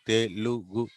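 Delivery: తెలుగు split as te, lu, gu; syllable by syllable. Shown as a demonstration. Teacher showing Telugu is said as written, syllable by syllable. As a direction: say తెలుగు one written letter at a time. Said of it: "తెలుగు అనే పలుకుతాం".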